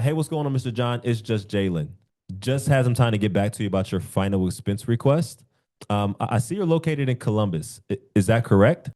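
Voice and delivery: calm, certain, steady rhythm; confident, rhythmic. Shown as a demonstration. Sales coach demos a confident call to Mister John. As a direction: sound sure and unhurried. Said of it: "It hits a little bit different".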